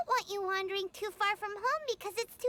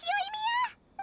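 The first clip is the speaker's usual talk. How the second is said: surprised; 11 semitones higher than usual. Acted. Paimon realizes who Yoimiya is.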